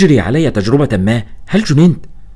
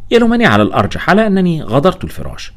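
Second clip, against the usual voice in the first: ordinary delivery, nothing marked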